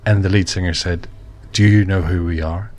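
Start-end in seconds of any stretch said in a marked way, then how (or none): 1.5-2.7 put-on Brummie accent. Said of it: "In a Brummie accent".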